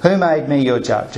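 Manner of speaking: brisk rhetorical question, not really asking; dismissive who made me your judge; rhetorical brush-off. Shown as a demonstration. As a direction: toss it off as a rhetorical jab. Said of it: "It sounds a bit rhetorical".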